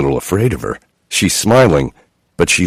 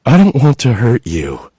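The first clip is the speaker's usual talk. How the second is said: moaning; 5 semitones higher than usual. A narrator's reading. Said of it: "she moaned".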